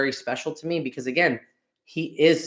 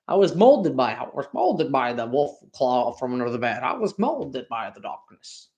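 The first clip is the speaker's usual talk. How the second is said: Bane; 3 semitones lower than usual. Acted. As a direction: draw it out in a put-on villain voice. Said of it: "I make the joke about Bane".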